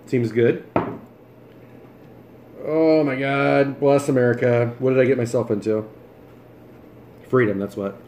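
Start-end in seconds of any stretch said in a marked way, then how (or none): 2.6-7.9 talking through a big bite; mouth full. Real, not acted. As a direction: chew while you talk. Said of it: "Read with my mouth full".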